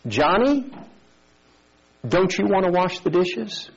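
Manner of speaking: put-on high-pitched sing-song little girl; teasing sister. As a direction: needle your brother sweetly. Sister teasing brother, voiced in story.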